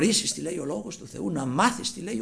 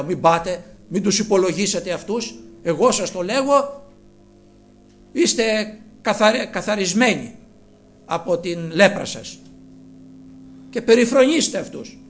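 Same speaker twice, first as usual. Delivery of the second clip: louder, firm pronouncement; emphatic mock command; 2 semitones higher, 6 dB louder than usual. Preacher imagining what Christ did not say, emphatic. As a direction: declare it boldly.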